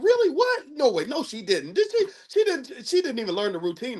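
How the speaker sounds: high, gasping gossip reactions; excited gossip. Retold or imitated. Dad reacting to his daughter's dance gossip, high and excited. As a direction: react like a friend hearing hot gossip.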